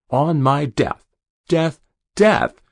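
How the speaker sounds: rage, spitting the word out; furious shout. Acted. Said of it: "defying his own abhorrence of the word".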